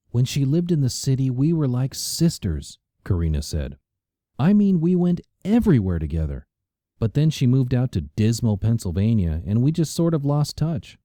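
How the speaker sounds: a snob dismissing the country; gushing socialite. A narrator's reading. Karina voiced by narrator.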